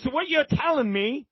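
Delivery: high-pitched Texan drawl; mock Southern Texan twang. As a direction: imitate a Texan shot caller's Southern drawl. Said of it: "with that Southern Texan drawl".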